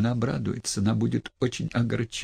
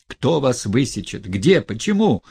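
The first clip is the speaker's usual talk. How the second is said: alarmed, louder outcry of questions; frightened cry; 5 dB louder than usual. Acted. Friend cries out in fright at Stepan Trofimovich. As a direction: fire the questions out in fear. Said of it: "вскричал я, испугавшись".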